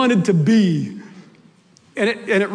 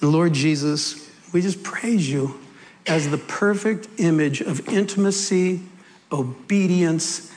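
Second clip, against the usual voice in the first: prayer; 3 semitones lower than usual. Real, not acted. Preacher leading the congregation to Father God, reverent prayer. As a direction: pray with long pauses, settling lower.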